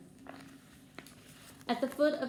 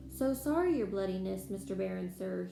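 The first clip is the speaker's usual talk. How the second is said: greasy. Acted. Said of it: "he said greasily".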